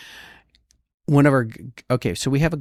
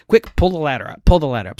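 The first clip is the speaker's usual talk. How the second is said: higher, louder squeaky mocking voice, urging hurry; mock squeaky governor; 5 semitones higher, 7 dB louder, faster than usual. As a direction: parody her squeaky panic. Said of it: "in that little squeaky voice of hers".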